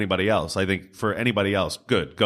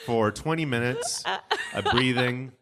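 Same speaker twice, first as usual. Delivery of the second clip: exasperated self-quote; 5 semitones higher than usual. Retold or imitated. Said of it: "I'm like".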